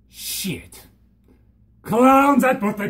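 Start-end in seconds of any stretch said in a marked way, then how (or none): 0.1-0.9 unvoiced whispered curse; whispered shit. Real, not acted. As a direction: breathe it out as a whisper. Whispered reaction.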